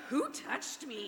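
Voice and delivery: sassy, drawn-out mock indignation. Preacher playing Jesus in the crowd for laughs, sassy. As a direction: stretch it like an affronted diva. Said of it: "Jesus is so sassy".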